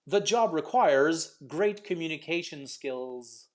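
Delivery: slow demo, final sounds of "requires", "great", "skills" fully pronounced; clear word endings. Shown as a demonstration. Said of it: "So lots of endings here".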